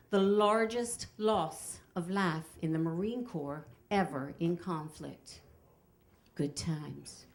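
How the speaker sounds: slow, deliberate tour guide recital; Kenny. Retold or imitated. Guide presenting the Iwo Jima statue, slow and ponderous. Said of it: "Kenny says".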